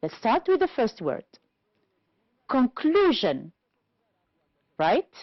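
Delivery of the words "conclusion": Conclusion drawn out slowly, CLU stressed; slow model Conclusion, peak in the middle; stress on second syllable. Shown as a demonstration. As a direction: stretch and punch CLU in Conclusion. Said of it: "Second one".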